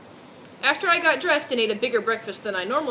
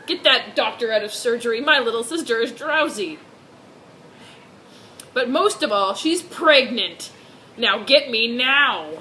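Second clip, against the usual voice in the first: louder, urgent hammed-up yell; mock yell; 5 dB louder than usual. Brother yelling at the nurse for his sister, mock loud. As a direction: demand the doctor, hammed up. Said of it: "Emmett yelled".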